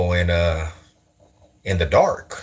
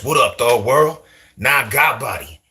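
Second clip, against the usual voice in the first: mock East Coast street accent; put-on street accent; 3 semitones higher than usual. Shown as a demonstration. Streamer demonstrating accents for viewers, mock East Coast street talk. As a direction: play up an East Coast hood greeting. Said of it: "Now, what if I talk like this?".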